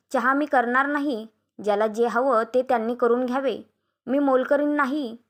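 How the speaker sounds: mildly indignant refusal; ठाम नकार. Acted. वहिनी चहा करायला नकार देते. (थोड्या रागात ठाम नकार)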